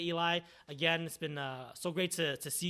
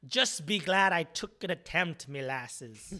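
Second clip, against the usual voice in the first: put-on Scottish accent; 6 dB louder, much slower than usual. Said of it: "Scottish, right?".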